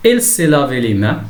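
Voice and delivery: slow, careful sentence reading; slow teacher's model sentence; example read-out. Shown as a demonstration. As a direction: read it out slowly for learners. Teacher reads example sentence aloud.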